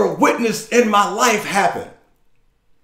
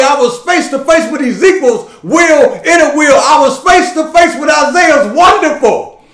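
building preaching litany; 3 semitones higher, 3 dB louder than usual. Acted. Preacher before congregation, building to a full-force cry.

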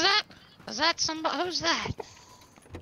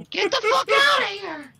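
loud, higher mock-threatening yell; yelled threat; 6 semitones higher, 4 dB louder than usual. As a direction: bark it at the intruder, louder and higher. Yelling at an enemy player.

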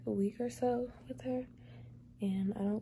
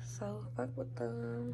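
low, soft unvoiced whisper; 9 semitones lower, 8 dB quieter, slower than usual. Real, not acted. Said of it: "whispered aside".

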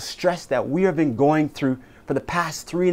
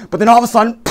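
dramatic build; 8 semitones higher, 8 dB louder, much faster than usual. Acted. Dramatic turn in the scene.

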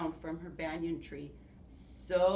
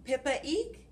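high squeaky mouse; mouse squeak; 6 semitones higher than usual. Acted. Teacher voicing Mouse for children, high squeak.

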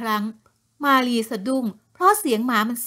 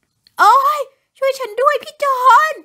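pained cry for help; 12 semitones higher, 7 dB louder, slower than usual. A narrator's reading. Woman falls, calls husband.

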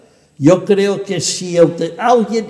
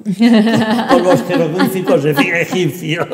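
laughing; 3 dB louder than usual. Real, not acted. Translator joking to interviewer about feeling like Champollion, laughing. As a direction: say it through an amused laugh.

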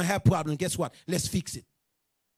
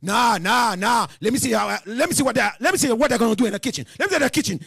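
acted defiant scoffing; perverted mind. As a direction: rattle out a mock indignant challenge. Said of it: "that perverted mind".

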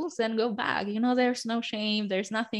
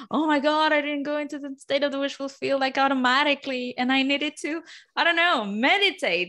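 higher, mock-fretful self-doubt; mock panic; 4 semitones higher than usual. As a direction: ham up a worried beginner's fret. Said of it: "you're not somehow like".

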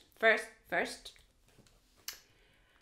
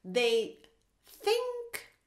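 grumpy bear voice; much slower than usual. Acted. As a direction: rumble it out like a doubtful bear. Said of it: "He goes like".

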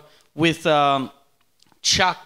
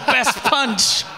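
laughing, higher mock award call; mock announcer; 7 semitones higher than usual. Joking about a fight award, laughing mock announcer. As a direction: announce it like a joke prize. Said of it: "It was like".

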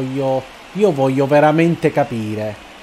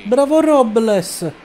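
higher, louder, slow "Bravo Robles!"; stretched cheer; 8 semitones higher, 5 dB louder, slower than usual. Real, not acted. Gamer cheering his batter Robles, stretched loud cheer. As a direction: drag out the praise like a chant.

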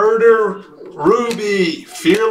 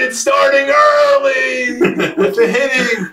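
excited call; 4 semitones higher than usual. Real, not acted. Breaker reacts to early hit.

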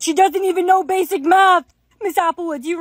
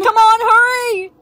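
high, drawn-out urging; urgent pleading; 6 semitones higher, 4 dB louder than usual. Acted. Friend urging Brianna to finish the sound, urgent pleading. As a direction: push them along in a panic.

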